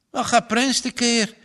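a puzzled farmer asking his wife; a startled farmer asking his wife; farmer's question. Acted. Farmer wonders about barking dog.

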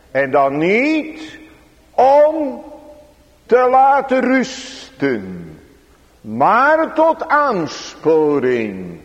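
slow, high-pitched pulpit emphasis; emphatic preaching. Real, not acted. Preacher urging the congregation not to rest, emphatic preaching. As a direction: draw the words out for weight.

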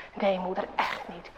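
put-on soft, meek boy's denial, fading to a breath; almost whisper the denial, small and timid; hushed child. A narrator's reading. Boy assures his mother, hushed and meek.

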